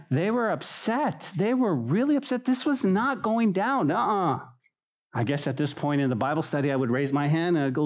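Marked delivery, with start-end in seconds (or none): 0.1-4.4 emphatic. Real, not acted. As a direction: stretch each word to drive it home. Preacher building emphasis.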